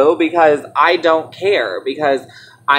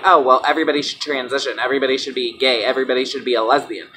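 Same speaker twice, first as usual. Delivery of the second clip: quick, low mock pronouncement; dismissive parody; 4 semitones lower, faster than usual. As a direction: rattle it off low as a mock opinion. Parodies a view she doesn't hold.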